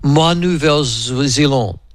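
slow, schoolboy attempt at French; careful French from a school learner. New Zealander introducing himself to the French, in schoolboy French. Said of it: "with my schoolboy French going".

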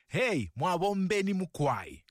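slow Bemba greeting with its tones. Shown as a demonstration. Greeting Martha back in Bemba, slow and tonal. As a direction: sing the Bemba tones of mwabombeni mukwai slowly. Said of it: "I managed to get that Bemba tonation".

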